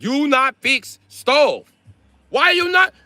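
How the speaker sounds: high, loud broken English, slow on stove; parroting the landlord's accent back; exaggerated Asian accent; mock Asian accent tenant. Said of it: "you be like".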